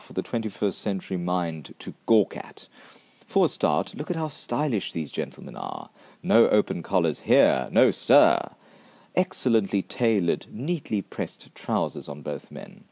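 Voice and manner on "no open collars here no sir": usual speaking voice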